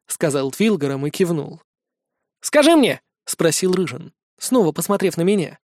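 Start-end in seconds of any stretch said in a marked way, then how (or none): 2.4-3.0 high squeaky little gnome. Acted. Tiny gnome voice.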